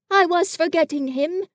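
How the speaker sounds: a gentle bear remembering a friend; Pooh voice. Acted. Pooh's voice in Winnie-the-Pooh.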